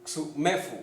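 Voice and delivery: xumefu with the middle syllable stressed. Shown as a demonstration. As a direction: say "xumefu" as ksu-ME-fu, leaning on ME. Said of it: "el acento es en la E".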